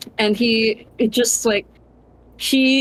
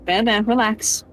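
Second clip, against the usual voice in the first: soothing. Acted. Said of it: "just like".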